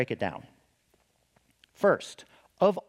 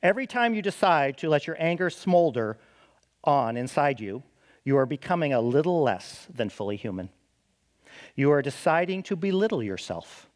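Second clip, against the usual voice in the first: a light hint of a proper British English accent; lightly voiced British English accent of a scholar; N T Wright British accent. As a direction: read it as an Anglican theologian in English accent, lightly. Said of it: "saying this in his proper English accent".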